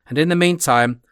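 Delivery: "meantime" given a pointed stress; strong accent on meantime. Acted. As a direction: lean hard on "meantime". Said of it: "laying a strong accent on the word".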